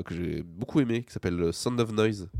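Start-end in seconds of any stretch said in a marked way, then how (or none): 1.5-2.3 title said with an English accent. Real, not acted. Podcast guest proudly naming the film, in an English accent. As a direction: give the film title English sounds, "Sound of Noise" with English vowels. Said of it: "avec mon meilleur accent anglais".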